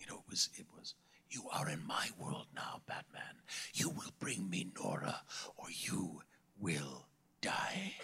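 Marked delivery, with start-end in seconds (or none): 1.3-8.0 breathy, barely voiced, frozen-sounding half-whisper. Recalling how the speaker played Freeze: Mr. Freeze voice, frozen vocal cords. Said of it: "I played Freeze as a man whose vocal cords have been frozen. So I played him like this".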